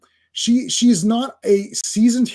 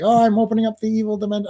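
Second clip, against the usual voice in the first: higher, quick attempt at a villainess; half-hearted evil sorceress voice, rushed; Enchantress; 4 semitones higher, much faster than usual. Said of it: "I don't know how Enchantress would, would talk".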